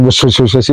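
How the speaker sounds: quick "wes" run in passing; repeated whooshes. Shown as a demonstration. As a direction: imitate noisy wings on the way down. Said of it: "kalau dia turun biasanya yang".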